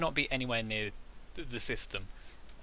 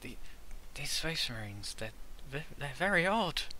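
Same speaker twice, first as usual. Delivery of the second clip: hushed, whispered aside; 3 semitones higher than usual. In a role-play scene, whispering aside. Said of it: "I'm whispering".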